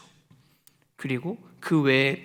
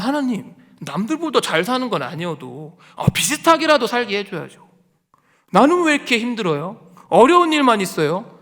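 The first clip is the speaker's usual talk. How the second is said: higher-pitched plaintive appeal to God; acted aggrieved plea, voice lifting; lamenting; 4 semitones higher, 4 dB louder than usual. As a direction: lament with growing exasperation, swelling then easing. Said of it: "탄식하는 얘기입니다".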